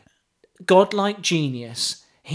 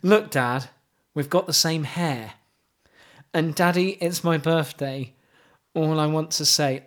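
mock poetry recital. Host reciting pop lyrics to co-host, mock solemn.

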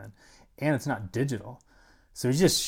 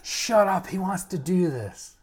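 higher and louder, dismissive retort; mock shout back; 9 semitones higher, 5 dB louder, slower than usual. The speaker shouting him down, hammed-up and dismissive. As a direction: brush off the worry with a loud snap.

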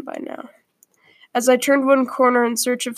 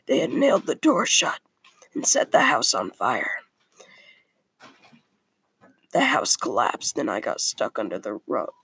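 begrudgingly. Acted. Apprentice boy telling the friar his story, mild begrudging hush. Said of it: "he replied begrud-, begrudgingly".

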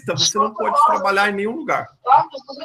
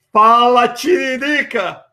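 louder greeting with the name slowly stretched; loud call-out; 5 dB louder, much slower than usual. Real, not acted. Host greets a new caller.

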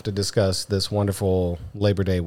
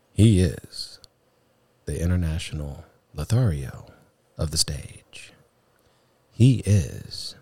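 sultry voice; 4 semitones lower than usual. Pretend. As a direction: purr it like a perfume ad. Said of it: "we have to have a sultry voice whenever introducing this man".

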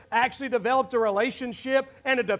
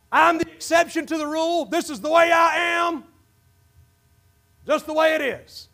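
stubborn excuse; 4 semitones higher than usual. Retold or imitated. Preacher imitating a stubborn churchgoer, mock-defiant. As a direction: dig in your heels, hammed-up. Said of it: "We like that voice".

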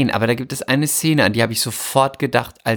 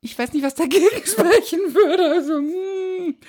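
much higher, squeaky breathless gushing; giddy fangirl; 14 semitones higher than usual. Pretend. Starstruck actress agrees to rehearse, squeaky gushing. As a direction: gush like a starstruck teen. Keeps playing flustered fan.

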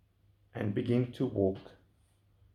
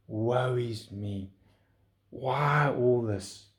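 grumbling; 2 semitones lower, much slower than usual. Retold or imitated. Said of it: "And we grumble and we complain".

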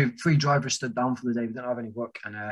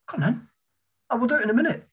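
mock lazy coworker; 10 semitones higher, faster than usual. Imitating lazy coworkers' replies.

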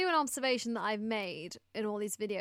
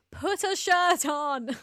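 drawn-out, loud, higher yell; retold yelling; 6 semitones higher, 6 dB louder, much slower than usual. Two viewers yelling at a contestant on screen, retold yell. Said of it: "we were too busy yelling at him".

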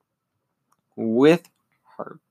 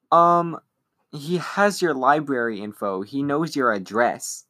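weird voice; 3 semitones higher than usual. Retold or imitated. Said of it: "in his weird voice".

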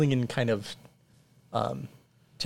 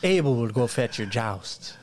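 peasant villager. Acted. GM voices peasant Abel.

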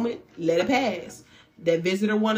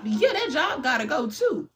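sing-song reply; 6 semitones higher than usual. Acted.

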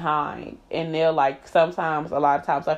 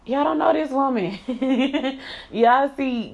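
exasperated; 7 semitones higher than usual. Real, not acted. Exasperated outburst.

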